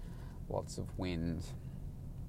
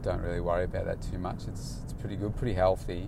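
flat client; 4 semitones lower, 6 dB quieter than usual. Retold or imitated. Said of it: "he said".

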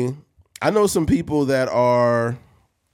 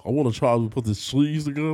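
hammed-up fat-man voice; 4 semitones higher than usual. Podcaster mocking foodies who cook TikTok recipes, fat voice. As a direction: put on a mock fat person's voice. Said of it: "They be talking in their fat voice".

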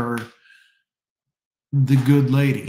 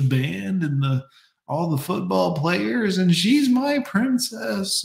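higher-pitched mock parents, indignant; outraged in-laws; 4 semitones higher than usual. In-laws scolding the son-in-law, mock indignant. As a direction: play the doting parents clutching their pearls. In-laws voiced defending their daughter.

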